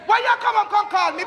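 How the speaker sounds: fast, rising Jamaican dad tirade; hammed-up patois scolding; mock-angry rant. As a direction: scold her like an outraged father. Father ranting at daughter.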